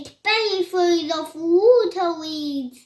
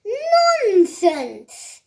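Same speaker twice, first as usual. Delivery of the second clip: higher, emphatic telling-off; scolding; 5 semitones higher, 4 dB louder than usual. A narrator's reading. Mother answers her frightened children, scolding. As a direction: dismiss it with a mild scold. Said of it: "The mother scolded".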